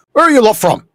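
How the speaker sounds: high, loud demand; demanding call. Acted. Leader looks over the party, demanding loudly. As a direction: call across sharply for an answer.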